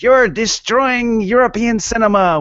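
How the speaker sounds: high, slow indignant outburst; French journalist. Retold or imitated. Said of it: "journalist piped up and was like".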